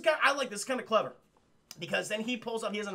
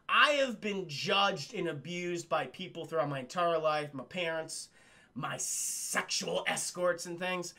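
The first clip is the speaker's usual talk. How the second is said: slow sincere confession; 2 semitones lower, slower than usual. Retold or imitated.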